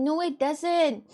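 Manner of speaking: "No, it doesn't" drawn out slowly, each word weighed; slow emphatic repeat. Shown as a demonstration. Insisting to the friend, a slow deliberate "No, it doesn't". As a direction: spell it out slowly so they get it.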